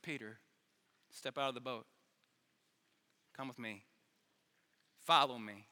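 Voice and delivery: acted calm summons, pitched low; calm invitation. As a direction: invite gently, one short phrase at a time. Voicing Jesus calling Peter.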